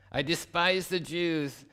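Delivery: outraged villain. Acted. Preacher voicing Haman's disgust at honoring Mordecai, high sneering voice. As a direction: play Haman appalled at honoring his enemy.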